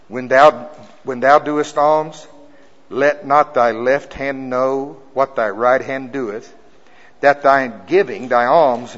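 slow, loud, measured reading of scripture. Acted. Preacher reading scripture aloud to the congregation, slow and emphatic. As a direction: read the King James verse to the church, slow and loud.

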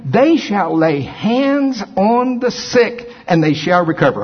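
slow, drawn-out scripture read; preaching scripture. Acted. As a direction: preach each word slowly. Slow emphatic scripture reading.

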